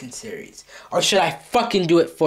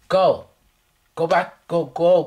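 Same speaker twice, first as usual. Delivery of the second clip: angry shout; 5 dB louder, slower than usual. Acted. Yelling at the other character.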